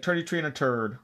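lightly imitated Irish pronunciation; Irish accent with th turned to t; playful hint of an Irish accent. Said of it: "like, they say".

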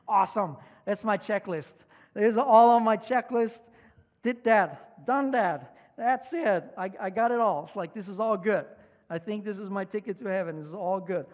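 put-on loud, smug young man sure of heaven; boastful excitement. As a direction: crow over everything done. Young man boasting his checklist.

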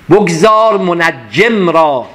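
very slow, lingering verse; slow poem recitation. Acted. Teacher chanting Rumi to listeners, very slow. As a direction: let the verse ring out slowly.

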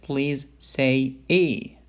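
drawn-out please say E; slow patient request. Shown as a demonstration. Doctor slowly asking the patient to say E. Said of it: "tell the patient".

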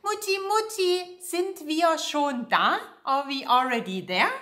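put-on high pleading child's voice calling mom; child asking mom from the back seat, pleading; whiny kid in the car. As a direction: play an impatient child on a long drive. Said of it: "a little kid when you're driving somewhere and they keep asking".

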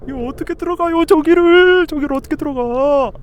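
high-pitched, reluctant whining; frightened wail. Real, not acted. Player dreading going in there, frightened wail. Scared of entering.

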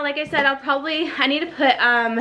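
breathless, talking between breaths; short of breath while packing. Real, not acted. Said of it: "I'm so out of breath".

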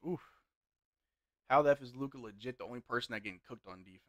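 ordinary talk, nothing marked

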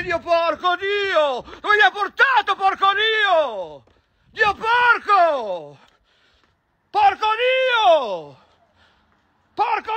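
slow, high, stretched-out swearing shouts; drawn-out outraged yell. Acted. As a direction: drag every curse out in disbelief. Outraged at being taken there.

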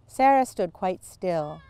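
plain reading voice

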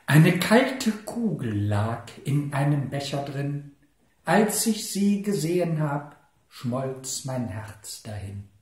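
mock love poem. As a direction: recite a rapturous ode, then let it fade. Recites mock love poem about ice cream. (schwärmerisch vorgetragenes Liebesgedicht)

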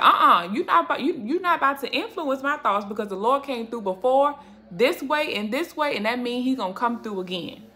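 defiant, sassy warning to the devil; sassy rebuke. Pretend. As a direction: shut the enemy down with attitude. Telling the enemy off.

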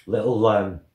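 talking while chewing food; muffled chewy tasting speech; mouth full, chewing. Real, not acted. Seen 0: Right man's hand at mouth, face working as if chewing.

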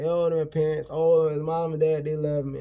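high, mock sweet voice, slow at first; mocking quote. Mocking people who defend parents, high and sweet. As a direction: parody them, high and syrupy. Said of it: "They wanna say".

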